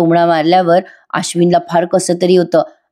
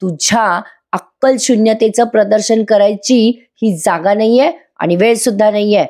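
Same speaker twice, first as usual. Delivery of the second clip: higher-pitched mock scolding; retold anger; 4 semitones higher than usual. Father scolding his daughter for blaming Sayali, mock angry. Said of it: "Raviraj खूप चिडतात तिच्यावर".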